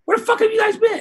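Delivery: imitating an irritated bandmate; acted annoyed demand. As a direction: confront them as if kept waiting. Acted confrontation in parking lot.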